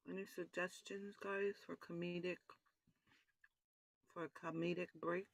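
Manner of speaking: chewing while talking; mouth full. Real, not acted. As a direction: talk through a mouthful. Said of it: "Sorry about chewing in your ears".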